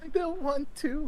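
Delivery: high laughing whine. Real, not acted. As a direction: laugh through the refusal. Player laughing refusal.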